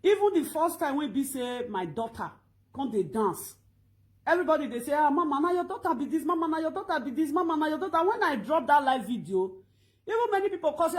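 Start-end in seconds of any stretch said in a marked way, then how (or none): 4.9-8.1 higher-pitched mock amazement; imitating excited followers. Followers seeing her daughter dance, imitated excited questioning. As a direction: play eager fans repeating themselves.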